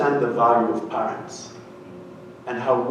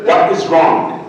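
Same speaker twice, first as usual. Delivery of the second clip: brash American; 5 dB louder, slower than usual. Retold or imitated. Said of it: "what American women from Pittsburgh would do".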